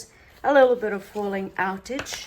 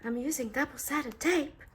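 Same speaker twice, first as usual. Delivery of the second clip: put-on playful French accent, pitched higher; 5 semitones higher, 4 dB quieter than usual. Crafter showing viewers her tape, mock French accent. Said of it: "or my French accent".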